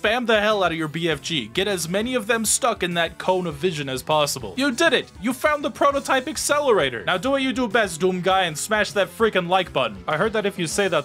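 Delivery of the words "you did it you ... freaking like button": excited announcer. Pretend. Mock game reward announcement.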